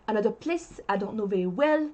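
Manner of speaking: lightly exaggerated French-accented English; faked French accent. Guest playing up their accent for friends, faked French accent. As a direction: put on a heavier French accent. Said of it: "you don't need to fake it".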